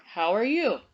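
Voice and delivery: "How are you" as a question, swooping up on "you"; asked as a question. Shown as a demonstration. Teacher showing pupils what a question sounds like, asking "How are you". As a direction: lift "you" in an asking tune. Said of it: "Or is it a question?".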